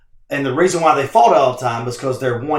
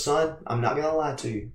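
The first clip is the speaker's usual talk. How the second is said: blunt mother; 3 semitones lower, 14 dB quieter than usual. Retold or imitated. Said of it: "She goes".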